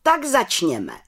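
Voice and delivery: lightly proclaimed opening; calling out. A narrator's reading. Head witch opening the council, calling out. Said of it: "zvolala vrchní čarodějnice".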